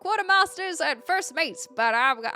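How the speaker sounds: rough-edged mock pirate accent read aloud. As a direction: ham up a storybook pirate accent. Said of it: "without the old pirate accent".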